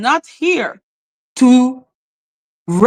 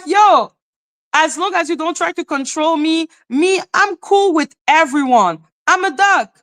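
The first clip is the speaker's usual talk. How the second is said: acted retort; 6 semitones higher than usual. Acting out own laid-back retort.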